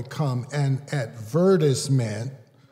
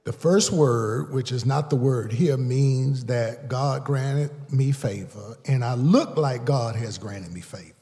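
slower restatement; 2 semitones higher, 3 dB louder than usual. Shown as a demonstration. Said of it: "I said it too fast".

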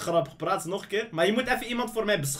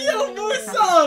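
calling out; 10 semitones higher, 4 dB louder, much slower than usual. Real, not acted. Calling friend on call.

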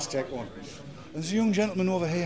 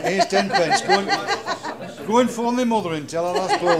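mock Yorkshire accent; 6 semitones higher, 7 dB louder than usual. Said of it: "I can talk like you".

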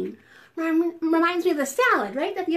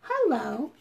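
medium voice; 4 semitones lower than usual. Shown as a demonstration. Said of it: "Not too loud. Not too quiet".

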